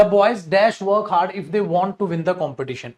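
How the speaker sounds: reads the sentence very slowly, word by word; slow dictation. Shown as a demonstration. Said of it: "ध्यान से सुनिएगा". (धीरे-धीरे बोलकर पढ़ाना)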